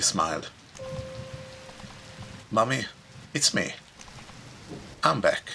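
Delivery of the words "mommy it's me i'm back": put-on higher, hopeful little girl; a child greeting her mother shyly; small girl voice. A narrator's reading. Girl back home calling to her mother, small hopeful voice.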